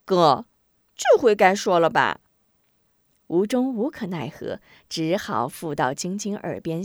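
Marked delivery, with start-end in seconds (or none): 0.0-2.2 put-on louder, insistent girl demanding; stern little sister. Sister demands the secret, stern and insistent. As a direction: press him for the secret. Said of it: "韩晶绷起脸来".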